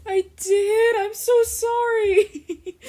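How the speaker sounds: high mock apology broken by laughter; laughing apology. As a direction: laugh through a slow, high sorry. Boyfriend apologizing, she laughs.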